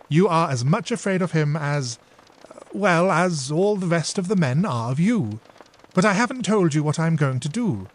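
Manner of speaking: a hint of a cheeky girl; saucy younger sister. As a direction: answer back sweetly. Dora answers saucily.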